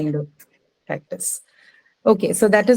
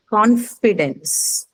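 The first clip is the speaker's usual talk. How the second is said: confidence drawn out, CON stressed; stress on first syllable; much slower than usual. Shown as a demonstration. Teacher introduces confidence to the class, stressing CON. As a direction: slowly give confidence its weight on CON. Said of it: "first syllable".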